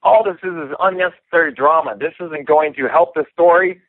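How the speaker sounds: high, whiny mock rant; mimicking Leben freaking out. Fighter mocking Leben's outburst in a high whine. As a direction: squeal the complaint like an upset housemate. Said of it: "Leben just freaking out".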